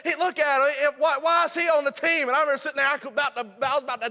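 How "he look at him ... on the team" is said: mocking teammate. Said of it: "he started laughing".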